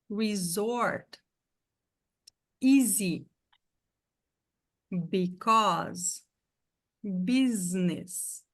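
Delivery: Resort, Easy, Because, Business with a Z sound; English pronunciation. Shown as a demonstration. Teacher listing Z-sound words for students. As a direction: buzz the Z in each word. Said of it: "tem som de Z".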